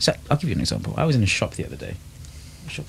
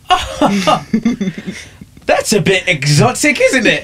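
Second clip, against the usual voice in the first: higher, slow, laughing mimicry; mock a tickled, surprised server, pitched up; imitated shop worker; 7 semitones higher, much slower than usual. Host mimics worker hearing his name, imitated amused surprise. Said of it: "She said".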